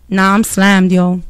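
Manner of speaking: a hint of a dismissive friend; mock brush-off. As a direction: toss it off like a busy friend. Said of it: "that don't go good".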